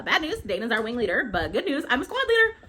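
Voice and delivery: rising to a high, loud finish; excited announcement. Retold or imitated. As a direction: build up to the big good news. Ree announces promotion to squad leader.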